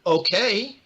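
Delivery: high, loud bewildered okay; uncertain okay. Retold or imitated. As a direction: go along with it, baffled. Bewildered reply to director.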